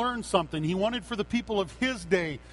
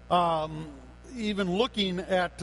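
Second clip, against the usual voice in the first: ordinary delivery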